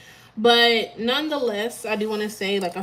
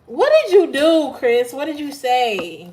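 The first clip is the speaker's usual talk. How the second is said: surprised; 4 semitones higher, 7 dB louder than usual. Real, not acted. Laughing disbelief at Chris.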